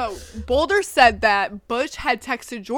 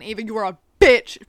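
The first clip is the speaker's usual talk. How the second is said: all caps; 3 semitones lower, 6 dB louder than usual. Retold or imitated. Reading out a friend's angry text, in all caps. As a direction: read the text with the insult punched loud. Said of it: "In all caps".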